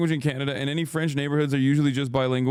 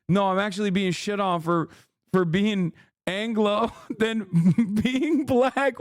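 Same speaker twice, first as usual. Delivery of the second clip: higher mock quote breaking into laughter; laughing quote; 6 semitones higher than usual. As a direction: quote them while cracking up. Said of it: "black Canadians being like".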